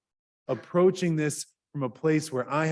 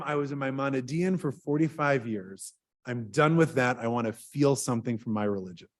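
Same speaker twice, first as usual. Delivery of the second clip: calm reply; 3 semitones lower than usual. Retold or imitated. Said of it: "David Hartman laughed, and he said".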